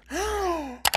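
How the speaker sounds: sharp high gasp of shock; surprised gasp. Real, not acted. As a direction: gasp in disbelief. Sees the actor's photo.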